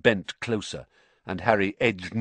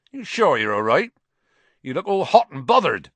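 louder, higher rustic concern; concerned Hagrid; 7 semitones higher, 7 dB louder than usual. A narrator's reading. Hagrid peering at a bothered Harry, concerned. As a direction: check on him heartily.

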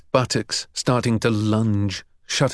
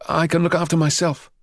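lightly voiced higher-pitched boy; injured schoolboy; 6 semitones higher than usual. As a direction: insist on your independence. Injured Harry insists, holding mouth.

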